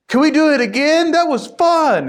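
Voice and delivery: put-on high, eager child's voice; excited kid. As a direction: beg for another go like a thrilled kid. Kids after the ride.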